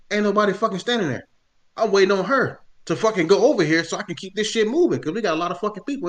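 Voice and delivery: high, loud disbelief; fired up and incredulous; exasperated rant. Real, not acted. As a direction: voice climbing in outrage. Exasperated rant about the customer.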